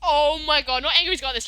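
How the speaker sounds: ordinary talk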